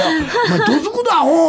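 hammed-up angry telling-off, half laughing; mock threat. Scolding AD in retold scene.

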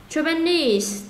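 "Japanese" stressed on "-nese"; teacher showing final stress in "Japanese"; stress on last syllable. Shown as a demonstration. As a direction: model "Japanese" with weight on its ending. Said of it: "Tận cùng bằng đuôi E S E luôn".

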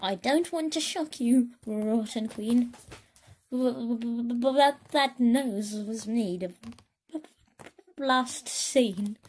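stuttering, hesitant delivery; nervous stammer. Acted. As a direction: stammer out the bad news. Mirror stammers bad news.

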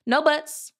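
high, quick-to-interrupt little fairy; twittering fairy. A narrator's reading. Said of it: "twittered the little fairy".

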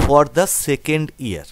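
very slow, word by word; slow repetition. Shown as a demonstration. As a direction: repeat it slowly for weak students. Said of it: "এটা শুরু হচ্ছে এইভাবে". (ধীরে ধীরে আবার বলা)

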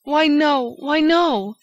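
high, loud insistent why no; emphatic exclamation. A narrator's reading. Old lady insisting to Raoul, loud and high. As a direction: exclaim it as obvious.

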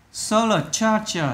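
"Solar charger" said slowly, stress on SO; first-syllable stress. Shown as a demonstration. Teacher showing pupils the stressed syllable, first-syllable stress. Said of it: "là nhấn âm đầu".

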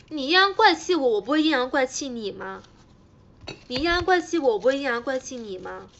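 loud, challenging comeback; indignant retort. Real, not acted. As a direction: start high and loud, then ease off. Retorts to sarcastic viewers.

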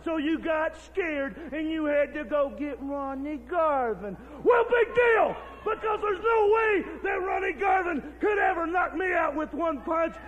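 shouting. Real, not acted. Heel promo shouting at rival.

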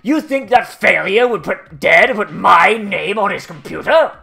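mock indignant Kyoko. Mocking Kyoko's insulted retort.

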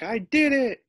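high, loud triumphant cry; victorious. Retold or imitated. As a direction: crow about the win. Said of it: "He's like".

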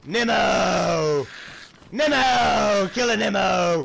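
excited loud calling; shouting a name. Real, not acted. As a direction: yell for him across the map. Shouting player name in game.

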